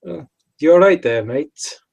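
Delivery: brash lad taunting the silent figure; cocky taunt. Acted. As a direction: sneer it back at him. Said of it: "stare back ... just be like".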